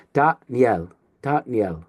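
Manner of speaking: "Da, niel" split, with n opening the second syllable; corrected n sound. Shown as a demonstration. Teacher corrects the slip, "Da, niel" with n instead of v. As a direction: say "da", break, then "niel" with an n. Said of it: "not a V sound".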